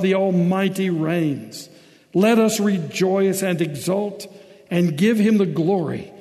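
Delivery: emphatic, declaimed Bible reading; full-voiced, deliberate public reading; solemn scripture reading. A narrator's reading. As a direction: proclaim the text to a congregation. Reads scripture aloud to congregation.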